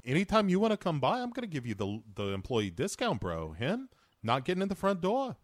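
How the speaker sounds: swooping, chummy bro voice; bro impression. Riffing as the movie hero, chummy bro impression. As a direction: play a generous tough-guy bro.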